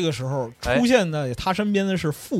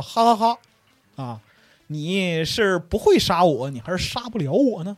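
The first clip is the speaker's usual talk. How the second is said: mock laugh. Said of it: "有人放声大笑说".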